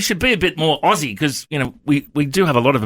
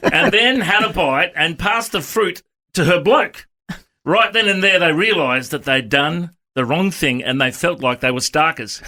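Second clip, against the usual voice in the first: story reading aloud; 2 semitones higher than usual. Acted. Reads from the Aussie Bible.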